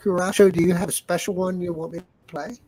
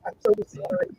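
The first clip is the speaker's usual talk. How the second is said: garbled, watery bad mic audio; underwater gurgling voice; faster than usual. Real, not acted. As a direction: voice bubbling like it's underwater. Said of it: "it sounds like you're way underwater".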